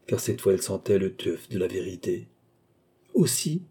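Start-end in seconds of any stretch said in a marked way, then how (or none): 3.1-3.6 polite echo, pitched up; mild, civil confirmation; polite repetition. A narrator's reading. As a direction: repeat it courteously, unperturbed. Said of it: "répéta poliment Cagliostro".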